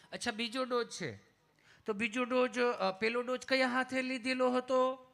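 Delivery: lightly voiced caring nurse; sweet nurse. (નર્સનો મીઠો અવાજ)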